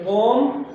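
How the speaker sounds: कॉम sounded out loudly on its own; first syllable कॉम, loud and detached; isolated syllable. Shown as a demonstration. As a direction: punch out कॉम as one separate syllable. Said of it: "इसको पढ़ते हुए आप कितने लफ्ज़ों में तोड़ सकते हैं".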